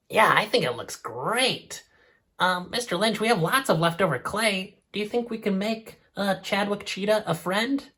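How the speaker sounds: a hint of a small nervous squirrel; squirrel puppet voice. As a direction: play the shy puppet asking Mister Lynch. Squirrel puppet asks questions.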